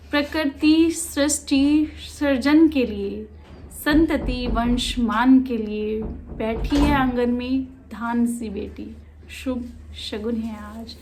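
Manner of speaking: measured poem reading that fades at the end; poetry recitation. Acted. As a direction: recite slowly, letting the last line drop away. Reads the poem aloud.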